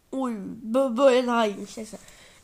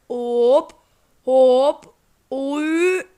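sudden loud hop at the shot; excited yelp; 7 dB louder, much slower than usual. Real, not acted. Gamer yelling at his shot, loud excited hop. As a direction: bark it out as the ball flies.

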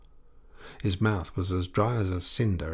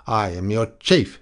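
shaky voice; 4 dB louder than usual. Acted. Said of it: "trying to master the shakiness of his voice".

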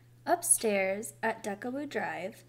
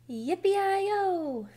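high, loud drawn-out holler; ringing high whoop; shouted cowboy cry; 9 semitones higher, 5 dB louder than usual. A narrator's reading. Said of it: "Baby shouted".

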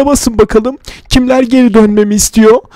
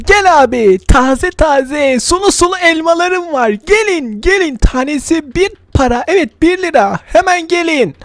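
melodic street vendor shout; 4 semitones higher than usual. Acted. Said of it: "Bağırma oğlum".

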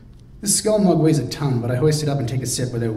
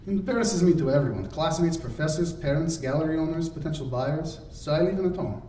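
lightly voiced Radmila; 5 semitones higher than usual. Radmila complaining, accented.

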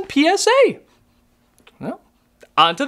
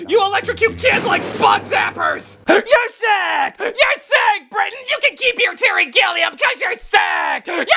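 mock outraged yelling; 5 semitones higher than usual. Real, not acted. Yelling insults at Britain.

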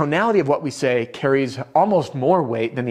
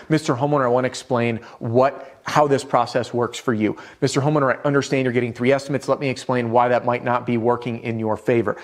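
authority. Shown as a demonstration. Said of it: "This is authority".

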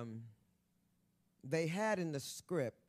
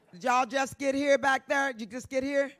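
calling out latecomers; 8 semitones higher, 7 dB louder than usual. Real, not acted. Heckling latecomers in audience.

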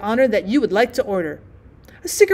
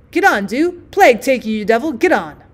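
lauter Rauswurf; doctor shooing him off; 3 dB louder than usual. Pretend. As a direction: scheuche ihn barsch weg. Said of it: "will be calling me names".

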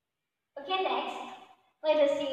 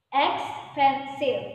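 Expensive stretched out slowly, louder, every syllable clear; slow model word; 5 dB louder, much slower than usual. Shown as a demonstration. Teacher drills expensive slowly so pupils can count syllables. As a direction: spell out Expensive slowly for the class. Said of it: "Okay, look".

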